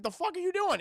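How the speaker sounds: high-pitched cartoon indignation; indignant challenge. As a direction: act out an outraged, squawked demand. Courage confronts the fox.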